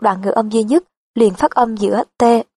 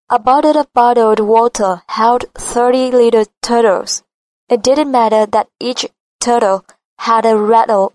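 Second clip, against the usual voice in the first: American accent. Shown as a demonstration. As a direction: read it American for the class. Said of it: "Cô sẽ đọc trước một lần". (giọng Mỹ chuẩn, đọc chậm làm mẫu)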